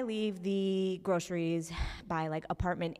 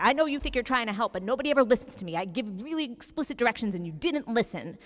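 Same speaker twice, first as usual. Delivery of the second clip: mock angry lecture; 4 semitones higher, 5 dB louder, faster than usual. Margaret lectures at door.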